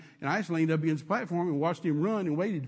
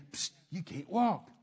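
devil whispering. Retold or imitated. Devil on the shoulder murmuring lies, lightly voiced. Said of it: "the devil sitting up here saying".

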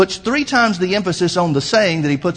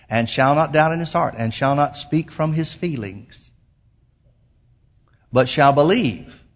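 measured scripture reading with long pauses; slow, deliberate reading; 4 semitones lower than usual. Real, not acted. Preacher rereads the verse to the congregation, slow and deliberate. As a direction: read it phrase by phrase, weighing each one.

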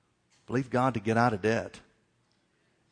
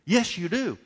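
inner voice, mild mock scream; 6 semitones higher, slower than usual. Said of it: "something on the inside was screaming".

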